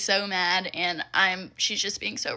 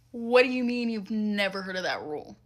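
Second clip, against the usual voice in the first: incredulous. Real, not acted. Disbelief at customer's claim.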